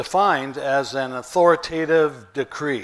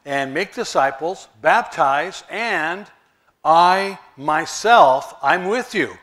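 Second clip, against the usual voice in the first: voicing Jesus, emphatic; 4 dB louder than usual. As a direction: urge them on as Jesus sending them out. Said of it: "Jesus is saying".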